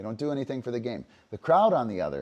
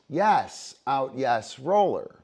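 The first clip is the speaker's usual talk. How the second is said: marker call; 2 semitones higher, 5 dB louder, slower than usual. Shown as a demonstration. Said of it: "They could have made three catches".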